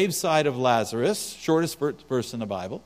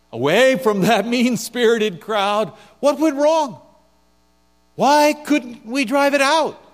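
much higher, louder, slow whiny pleading; baffled disciples; 7 semitones higher, 6 dB louder than usual. Acted. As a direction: plead like an embarrassed student. Disciples pleading with Jesus privately.

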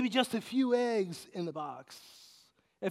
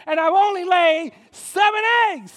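much louder, higher proud cry; triumphant shout; 12 semitones higher, 13 dB louder than usual. Retold or imitated. Preacher boasting to the congregation about only seven eggs, shouting. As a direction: belt out the punchline proudly.

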